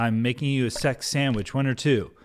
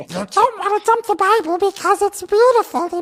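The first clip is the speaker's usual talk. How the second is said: put-on creature voice, higher and louder; 8 dB louder than usual. Demonstrating a voice asked for in a discussion: Gollum voice. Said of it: "just do everything in the Gollum voice".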